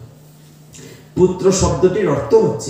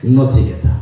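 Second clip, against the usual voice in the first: Nachiketa said again, louder and firm; Nachiketa boldly restated for the crowd; louder repeat. Shown as a demonstration. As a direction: call out Nachiketa once more so all repeat it. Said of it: "এই তো আপনারা ঘুমাইছেন না".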